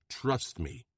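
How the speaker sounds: firm, commanding restatement; thundering command. A narrator's reading. Bronco silencing Lena, a hint of thunder. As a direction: lay down the law. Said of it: "Bronco thunders".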